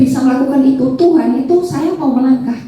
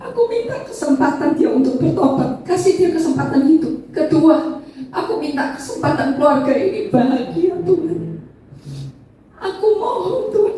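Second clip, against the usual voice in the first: tearful prayer; 3 semitones higher than usual. Retold or imitated. Retold desperate prayer in hospital.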